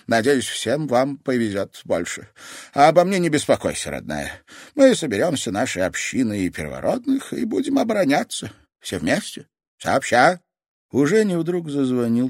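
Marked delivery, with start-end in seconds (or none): 0.1-10.4 lightly voiced, warm and resolute; calm her fears; steady old woman; reassuring grandmother.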